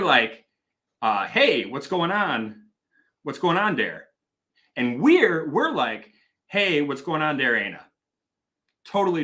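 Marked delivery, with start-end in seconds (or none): 1.3-4.1 imitating a Green Bay, Wisconsin accent; drawn-out northern Wisconsin accent on a casual greeting. Shown as a demonstration. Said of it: "if you go up to, like, Oshkosh or, like, Green Bay". 6.5-7.8 imitating old Milwaukee dialect; casual Milwaukee-accented greeting. Shown as a demonstration. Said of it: "Milwaukee dialect is, is different".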